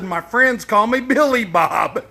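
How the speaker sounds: laughing through the punchline; chuckling as he delivers the joke. Real, not acted. Telling a stranger his joke name, laughing.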